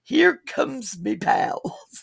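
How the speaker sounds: slow, fake Cockney accent; mock bad Cockney accent; Dick Van Dyke Cockney. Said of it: "worst British accent ever in Mary Poppins".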